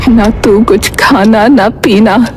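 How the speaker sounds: put-on old grandmother, weak but urgent; lightly voiced dying grandmother.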